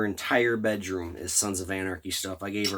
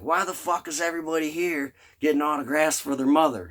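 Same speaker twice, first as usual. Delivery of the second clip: higher-pitched, joking complaint; mock exasperation; 7 semitones higher, 4 dB louder than usual. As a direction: imitate someone comically fed up with everyone. Retold actor's joking exasperated question.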